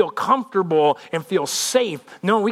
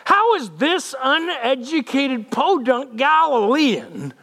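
high, drawn-out mock scholar voice; snooty religious leaders; 6 semitones higher, slower than usual. Leaders objecting to the uneducated Galilean, high mock-snooty. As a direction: put on a hammed-up, high-pitched elitist voice. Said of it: "that's how they all talk like this".

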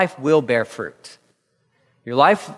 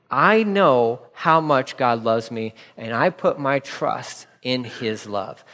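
slow personal recital; slower than usual. Shown as a demonstration. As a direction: say it slowly like a promise to yourself. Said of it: "repeat to yourself daily".

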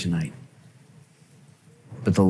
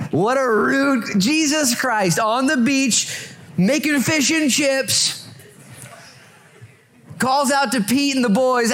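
much higher, slow and sing-song; mock high storytelling; slower than usual. Pastor hamming up Jesus on the beach, mock high slow voice. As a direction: drag it out high like a comic bit.

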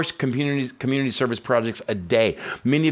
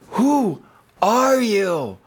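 slow, drawn out, awed question; drawn out wonder; 11 semitones higher, 5 dB louder, much slower than usual. Retold or imitated. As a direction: stretch it out in wonder. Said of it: "I wrote this thing going".

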